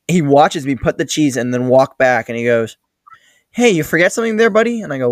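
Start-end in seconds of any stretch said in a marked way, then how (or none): 3.5-4.8 much higher-pitched imitation of a needling boss; mock scolding boss. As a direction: call out the employee's slip in a raised mock-boss pitch. Boss calling out employee's mistake.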